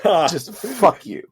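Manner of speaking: very slow, dragged contempt; drawn-out curse. Real, not acted. Cursing the tutorial makers to the partner, very slow drawn-out. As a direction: stretch every word out.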